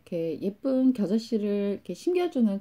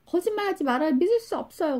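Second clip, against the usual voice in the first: much higher, imitated schoolgirl protest; retold anger; 10 semitones higher, faster than usual. Schoolgirl refusing to believe her teacher, mock angry. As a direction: act out a student's angry disbelief, voice pitched up. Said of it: "그러면서 화를 내면서".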